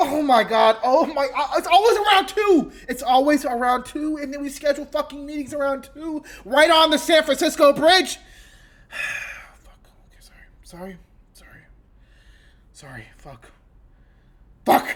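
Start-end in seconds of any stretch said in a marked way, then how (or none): 1.6-15.0 angry swearing, higher and louder. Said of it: "cussing out".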